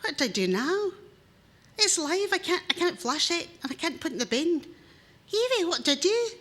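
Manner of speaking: husband begging his wife for help; flustered plea. Acted. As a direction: fret at a live vole in his hand.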